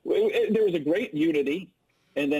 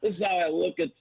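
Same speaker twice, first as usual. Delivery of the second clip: Jay Gruden impression. Shown as a demonstration. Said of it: "ask me to do my Jay Gruden".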